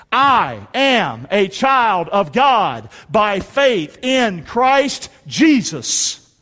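slow, measured declaration in short phrases; congregational scripture recitation. Real, not acted. Preacher leads congregation reciting a verse, slow declaration. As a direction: lead a crowd reciting, phrase by phrase.

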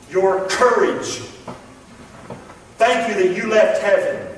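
earnest, measured prayer voice; closing prayer. Real, not acted. Pastor praying for the congregation after the lesson, earnest. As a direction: pray it sincerely, slowing on key words.

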